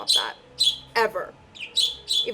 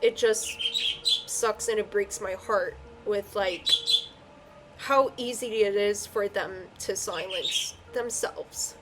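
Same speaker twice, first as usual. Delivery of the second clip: slow, tearful and heartbroken; crying while talking; 2 semitones lower, 3 dB quieter, slower than usual. Real, not acted. Reader tells viewers what breaks their heart, tearfully. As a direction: let it drag slowly through real tears. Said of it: "I don't know why I'm crying like that".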